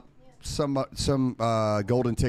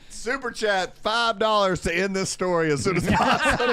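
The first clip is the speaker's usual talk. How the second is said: imitating a host reading a donation, pitched high; mock super chat reading; 7 semitones higher than usual. Teasing the storyteller, a higher mock announcer read. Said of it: "I thought he was about to say".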